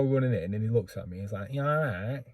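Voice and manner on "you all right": lightly voiced impression of a local lad; a hint of the lad's own way of talking; imitated lad's greeting. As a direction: mimic how he talks, slightly. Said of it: "'Cause that's how he talks".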